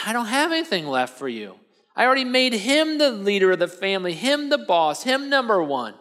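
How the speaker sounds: acted exasperated regret; distraught father. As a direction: act out an upset father with nothing left to give. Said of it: "they're both crying".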